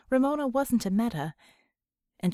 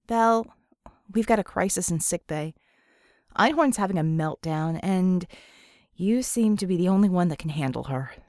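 louder, pressing voice; urgent comm call; 3 semitones lower, 5 dB louder than usual. A narrator's reading. Ramona calling Bella about the crisis in sickbay, louder and urgent. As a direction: call for help over the comm.

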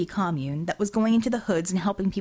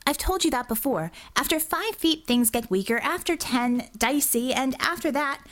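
slightly higher exasperated officer; Bella, exasperated; 5 semitones higher than usual. Acted. Telepath reminds boss of her range, exasperated. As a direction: list the limits until cut off.

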